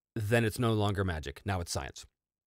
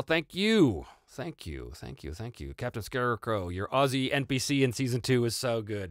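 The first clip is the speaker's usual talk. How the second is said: normal talking voice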